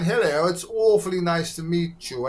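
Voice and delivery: lightly put-on posh English accent; mock pretentious posh English, for academic company; pretentious talking. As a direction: imitate your own attempt at well-spoken English. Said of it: "trying to live this pretentious talking thing".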